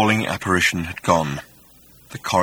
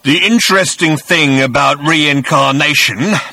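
rasping; 6 semitones higher, 8 dB louder than usual. A narrator's reading. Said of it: "rasped the voice".

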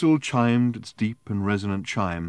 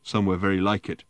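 put-on drunken happiness; 4 semitones higher, 6 dB louder than usual. Drunk Arthur slurring happily.

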